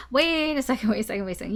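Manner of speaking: high stretched "wait", then dropping back; sudden second thoughts. Acted. Reader mimicking the client flip-flopping between plans, sudden second thoughts.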